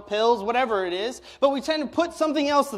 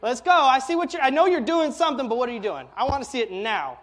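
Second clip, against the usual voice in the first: impatient demand; 3 semitones higher, 3 dB louder than usual. Retold or imitated. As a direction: beg God to hurry up. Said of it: "I'm like".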